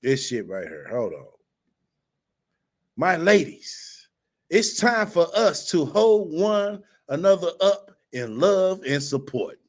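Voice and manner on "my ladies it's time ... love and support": slow, higher, syrupy mock reading of the book; lightly hammed-up motivational voice; mock self-help author. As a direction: read it like a sappy inspirational guru, poking fun. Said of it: "she goes on to say".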